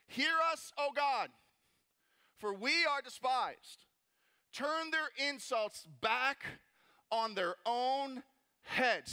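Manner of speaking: forceful, slowing prayer in measured phrases; praying mean. Acted. Nehemiah praying against his mockers, praying mean. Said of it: "he is praying mean right now".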